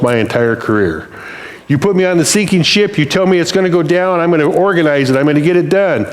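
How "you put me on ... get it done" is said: higher, confident take-charge boasting; swelling self-assurance, pitched up; prideful. Acted. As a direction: boast like the one who will save the day. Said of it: "how quickly I went to be prideful".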